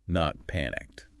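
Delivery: slow, stretched calm on Calm means not rushed; unhurried calm. Shown as a demonstration. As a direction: let the word calm linger, slowly. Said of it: "Calm means not rushed".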